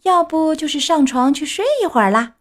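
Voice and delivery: high, loud mocking laughter-voice; laughing hard. Second boy mocks Pinocchio, laughing loudly. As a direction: say it while doubled over laughing. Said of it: "笑得前仰后合".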